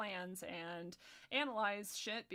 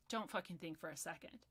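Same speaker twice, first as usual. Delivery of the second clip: lower, softer restrained disgust; subdued repeat; 4 semitones lower, 6 dB quieter than usual. Real, not acted. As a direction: drop the voice to drive it home.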